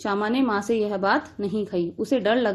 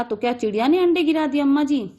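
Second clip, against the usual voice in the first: put-on higher, fearful little girl asking; timid question; 5 semitones higher, 3 dB louder than usual. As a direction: ask fearfully, afraid of mother. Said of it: "डरते डरते पूछा".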